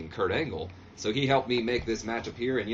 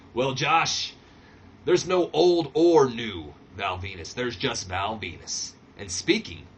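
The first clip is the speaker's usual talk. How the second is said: slow, louder self-satisfied line; Val Venus, smug; 4 dB louder, slower than usual. Retold or imitated. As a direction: savor your own name. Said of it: "He kinda laughs, does a little bit of a chuckle".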